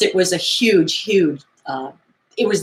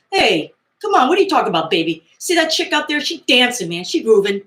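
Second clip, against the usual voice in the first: high, lightly hammed-up hipster DJ; smooth-talk him, man; DJ's voice; 6 semitones higher, faster than usual. DJ coaxing Tony to look at the dancer, lightly hammed-up. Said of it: "He goes".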